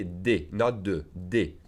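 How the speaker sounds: "des" with a closed é, against "de"; careful vowel contrast; correction. Shown as a demonstration. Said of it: "some plus plural noun is des".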